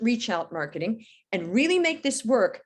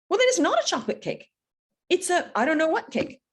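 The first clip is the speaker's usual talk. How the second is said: exasperated punchline; 6 semitones higher than usual. Real, not acted.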